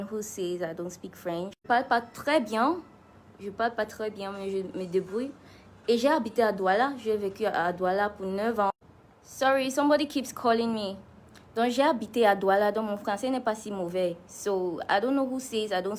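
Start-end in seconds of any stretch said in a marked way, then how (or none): 1.6-8.7 French spoken like an Englishman; English-accented French. Shown as a demonstration. Singer proving they speak French, English-accented French. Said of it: "My French might sound like an Englishman speaking". 11.6-14.2 French spoken like an Englishman; English-accented French. Shown as a demonstration. Singer proving they speak French, English-accented French. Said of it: "My French might sound like an Englishman speaking".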